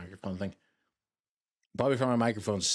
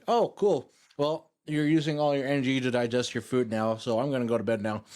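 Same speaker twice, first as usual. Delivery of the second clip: brain voice; 3 semitones higher, 3 dB louder than usual. Pretend.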